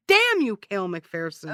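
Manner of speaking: loud mock-dramatic cry of vengeance; theatrical curse. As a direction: curse an absent nemesis, punching the first word. Curses absent villain aloud.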